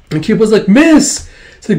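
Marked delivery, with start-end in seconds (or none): 0.7-1.3 very high, loud rising cry; desperate calling out. Acted. Kippa to miss amid battle, frantic high call.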